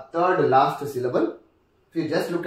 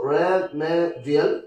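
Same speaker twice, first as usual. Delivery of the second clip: broken into syllables; much slower than usual. Shown as a demonstration. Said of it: "we just have the syllable there".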